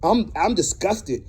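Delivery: real indignant rant, cursing freely; fed up and fired up; mad. Real, not acted. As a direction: vent righteous anger in a driving tirade. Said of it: "and I'm mad".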